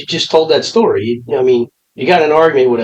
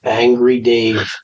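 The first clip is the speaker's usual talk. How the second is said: teasing label; 2 semitones lower, much slower than usual. Real, not acted. Teasing nickname after the rant.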